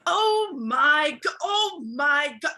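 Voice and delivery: appalled. Acted. Boss hears of broken doors, mildly appalled. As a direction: draw out the dismay, then pronounce judgement.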